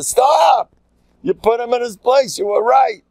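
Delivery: high, forceful rebuke with a shouted start; emphatic cutting-in. Acted. Rabbi cutting off regret over putting someone in his place, emphatic. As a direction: cut off the doubts loudly, insisting.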